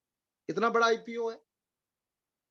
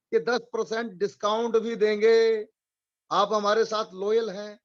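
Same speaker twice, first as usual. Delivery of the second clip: louder, emphatic retold company promise; forceful announcement; 6 dB louder than usual. Trainer relays LIC's discount promise to agents, forcefully. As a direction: declare it with force, as the company's pledge. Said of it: "जोरदार कह दी है".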